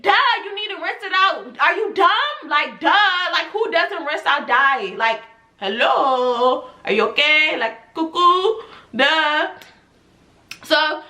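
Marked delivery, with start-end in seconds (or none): 0.0-9.5 high, sassy mock disbelief; mocking sass. Real, not acted. Stylist mocking a client who won't rinse out dye, sassy and high. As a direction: talk down to her like she's cuckoo.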